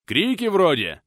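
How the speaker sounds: high, loud alert; guard sounding alarm; alarm call. Acted. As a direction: call out suddenly hearing cries.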